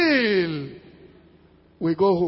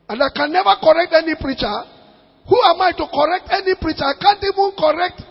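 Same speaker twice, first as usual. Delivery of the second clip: preaching louder; 3 semitones higher, 6 dB louder than usual. Real, not acted. Preacher building to a climax.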